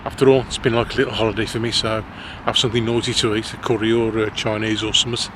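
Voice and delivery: thick Black Country accent, laid on heavy; broad West Midlands Black Country accent. Real, not acted. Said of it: "I'm putting my black country accent on thick".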